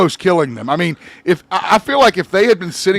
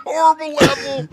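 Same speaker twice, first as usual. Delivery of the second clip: horrified outburst; 10 semitones higher than usual. Real, not acted. Friend reacts to a trauma-inducing game level, horrified shout. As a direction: shout it out, genuinely disturbed.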